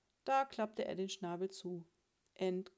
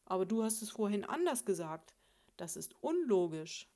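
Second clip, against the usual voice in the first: loud objection; 7 dB louder than usual. Acted. Husband argues back loudly.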